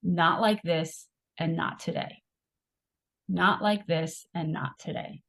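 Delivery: slow, measured imitation of grandmother; grandmother's repeated refrain. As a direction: repeat it slowly and evenly, as a steady refrain. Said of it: "basically just saying over and over again".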